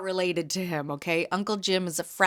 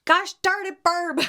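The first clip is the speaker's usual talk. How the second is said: high, louder, mock-cross through tears; teary exclamation; 11 semitones higher, 4 dB louder, slower than usual. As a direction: scold her fondly while tearing up. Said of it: "I started to get all".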